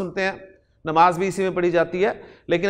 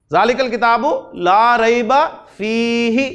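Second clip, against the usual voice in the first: slow Quranic recitation; slower than usual. Shown as a demonstration. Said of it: "फी ही से याद रख लें उसको".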